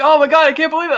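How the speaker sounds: high-pitched imitation of an excited friend; hammed-up phone freak-out; mock disbelief. Ned on a call to Peter, mock excited disbelief. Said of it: "He's like".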